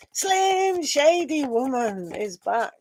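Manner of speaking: slow, drawn-out mock fanfare; playful announcement. Reader welcoming back a viewer, slow playful fanfare. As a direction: roll it out like a grand welcome.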